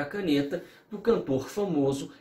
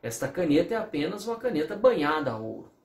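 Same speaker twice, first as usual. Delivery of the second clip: jeweler's reply. Retold or imitated. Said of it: "fala assim".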